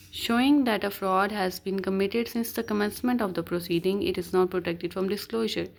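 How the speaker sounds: slow, deliberate reading of legal text; measured recital of the law; reading the statute. Acted. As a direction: read each word out slowly like dictation.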